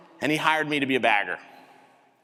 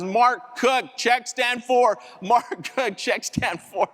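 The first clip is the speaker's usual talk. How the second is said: store PA announcement, higher-pitched call; Mister Brown; 7 semitones higher, slower than usual. Retold or imitated. Boss summons the cowering bagger over the PA, announcement voice. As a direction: imitate a supervisor paging staff over the loudspeaker. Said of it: "heard this announcement over the P A".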